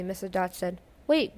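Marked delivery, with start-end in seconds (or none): 1.1-1.4 sudden high loud yelp. A narrator's reading. Gerber yelping to stop the teacher, high and loud. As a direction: blurt it out in alarm. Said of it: "Gerber yelped".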